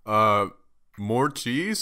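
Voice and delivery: disbelieving ask with a rise; incredulous. Retold or imitated. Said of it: "I had the face".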